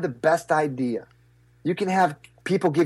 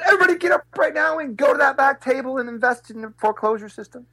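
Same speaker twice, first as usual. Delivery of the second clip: shouting to the crowd; 10 semitones higher than usual. Retold or imitated. Speaker on stage urging the crowd to invest, a rallying shout. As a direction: fire the whole room up to move. His call to the audience.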